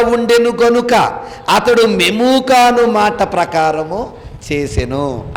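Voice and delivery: slow, declaimed verse on a sustained tone; preacher's slow, measured reading; scripture reading. Acted. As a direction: stretch each phrase out like a formal Bible recitation. Reads scripture aloud to congregation.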